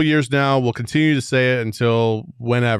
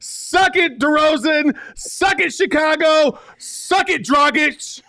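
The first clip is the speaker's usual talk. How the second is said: Nookie Monster voice; 5 dB louder, slower than usual. Pretend. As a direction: roar it like a growling monster. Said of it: "Will you do it in a Nookie Monster voice?".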